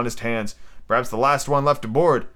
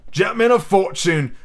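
pirate voice; 7 semitones higher than usual. Acted. Silver's pirate voice.

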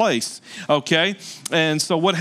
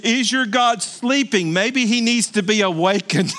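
mock taunting; 3 semitones higher than usual. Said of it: "And he's mocking them".

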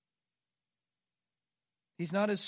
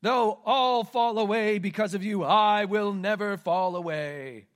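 louder, emphatic declaration; Peter's vow; 2 semitones higher, 7 dB louder, slower than usual. Acted. Peter vowing loyalty to Jesus, loud emphatic vow. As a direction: swear it with full conviction. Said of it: "Peter answered him".

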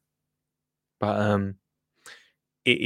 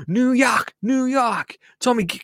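rowdy jeering pub banter; 4 semitones higher than usual. Pretend. Jeering at lads on the trip.

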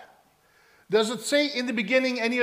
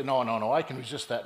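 stubborn wife; 8 semitones lower than usual. Acted. Wife scoffing at husband's claim.

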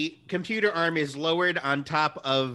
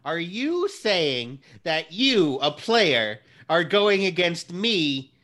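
accusing; 4 semitones higher, 5 dB louder than usual. Acted. DM as Friend Computer accusing.

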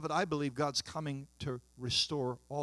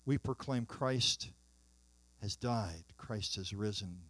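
liturgical prayer. Acted. Pastor praying for the congregation at the table, hushed and reverent. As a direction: pray it humbly before the table.

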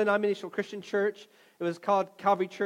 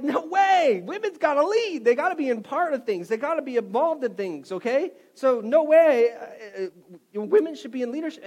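retold emphatic insistence; 5 semitones higher, 5 dB louder than usual. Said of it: "And I was like".

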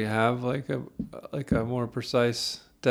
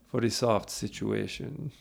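slow, softly voiced Italian accent; 6 dB quieter, slower than usual. Friend changes the room lighting and announces the mood, Italian accent. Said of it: "in an Italian accent".

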